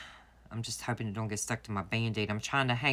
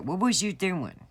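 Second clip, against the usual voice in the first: high-pitched, slightly louder mock scolding; mock yell; 8 semitones higher, 4 dB louder than usual. Nail tech scolding a customer over a broken nail, mock yell. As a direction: imitate an exasperated telling-off, pitched way up. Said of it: "he's gonna yell and be like".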